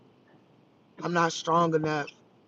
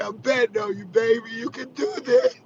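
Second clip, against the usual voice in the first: sweet reassurance; 4 semitones higher than usual. Retold or imitated. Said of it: "So sweet".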